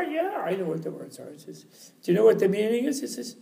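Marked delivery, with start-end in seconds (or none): 0.0-1.3 lightly voiced scholar, softer reply; scholar's answer. Scholar answers the cleaning lady's test, lightly acted reply. 2.0-3.0 high, climbing question; cleaning lady. Acted. Cleaning lady presses scholar on the meaning, high questioning voice.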